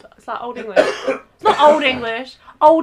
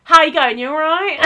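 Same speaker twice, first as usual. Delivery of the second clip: louder, casual British greeting; waiter's British accent; 3 semitones higher, 4 dB louder than usual. Retold or imitated. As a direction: imitate the waiter dropping into British English. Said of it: "And then he goes".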